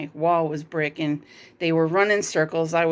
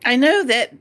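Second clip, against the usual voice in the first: crying; 6 semitones higher, slower than usual. Real, not acted.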